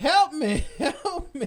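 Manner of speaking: very high, loud screaming cries. Narrating the scene, voicing Rowan Gene still screaming for help. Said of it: "still screaming".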